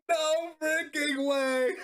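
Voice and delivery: laughing disbelief. Real, not acted. Unbelievable card play.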